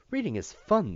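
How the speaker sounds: very high, loud singsong "Reading is fun"; hearty voice. Acted. Teacher announcing reading to Matt in high hearty singsong. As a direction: beam it out with relentless cheer. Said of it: "the teacher said in a hearty voice".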